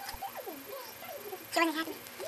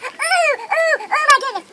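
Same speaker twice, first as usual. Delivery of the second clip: high, slow, gasping "ooh, oh my goodness"; over-the-top amazed squeal; excited gasp; 7 semitones higher, slower than usual. Acted. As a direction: gasp with delight at the topic. Gasping at the topic.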